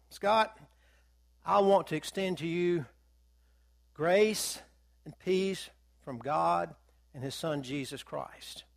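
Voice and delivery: earnest, hushed benediction; solemn blessing. Shown as a demonstration. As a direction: bestow it like a sacred blessing. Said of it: "now, what has happened".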